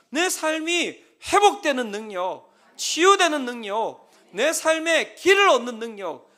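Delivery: preaching emphasis. Real, not acted. Preacher builds a list emphatically.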